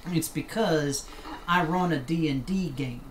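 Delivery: put-on Southern accent. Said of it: "as I get into my southern accent here".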